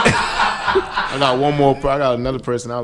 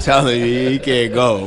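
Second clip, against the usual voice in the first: laughing; 2 semitones higher, 5 dB louder, slower than usual. Real, not acted. Laughing while insisting.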